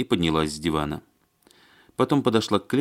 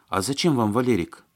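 higher-pitched, startled question; sudden realisation; 6 semitones higher, 3 dB louder than usual. A narrator's reading. Маня suddenly wondering why they want Валерик, startled. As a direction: ask as if it just dawned on you. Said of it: "спохватилась вдруг Маня".

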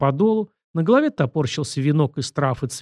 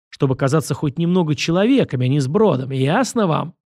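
scornful director; 2 semitones higher than usual. Acted.

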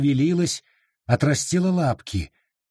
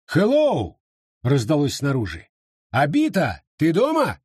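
calling out. Acted. Visitor calling from outside.

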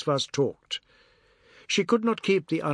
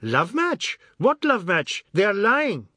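higher, louder indignant retort; angry denial; 6 semitones higher, 4 dB louder, slower than usual. A narrator's reading. Biswas angrily denying the love match to Ajoda. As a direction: throw the words back, offended.

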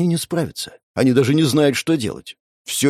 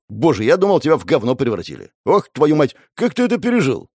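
shouting in disbelief; 3 semitones higher than usual. Acted. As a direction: call over the noise, astonished. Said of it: "крикнул Ли".

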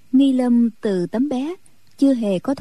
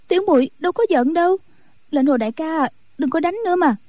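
put-on a lightly higher, quick girlish voice; hurt young nun; 7 semitones higher, faster than usual. A narrator's reading. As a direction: sulk through hurt feelings. Nun begs him stop. (giọng ni cô trẻ hờn dỗi, hơi cao)

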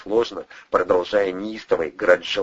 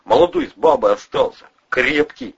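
high, pressured confession; loud, high-pitched blurting; cracking under questioning; 7 semitones higher, 5 dB louder than usual. A narrator's reading. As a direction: spill it all under threat. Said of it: "кололся Любчик".

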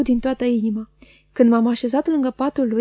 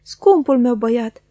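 louder and slow, overjoyed; emotional cry; 5 dB louder, slower than usual. Acted. Old nurse recognising her boy, loud slow joyful cry. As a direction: cry it out, slowly, with joy. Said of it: "a strigat ea".

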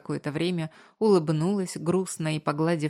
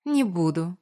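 condescending; 2 semitones higher, 3 dB louder than usual. A narrator's reading. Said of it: "снисходительно улыбнулась она".

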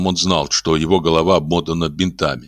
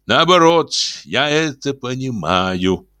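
cold retort; 6 semitones higher, slower than usual. A narrator's reading.

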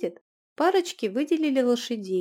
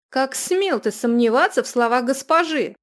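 angry rebuke; 4 semitones higher, 9 dB louder than usual. Acted. Runika berates Julian.

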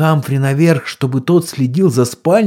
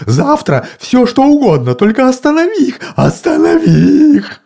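desperate pleading; 14 semitones higher, 4 dB louder than usual. A narrator's reading. Mr Wilkes begs.

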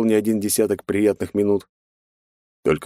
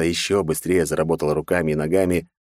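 plain reading voice

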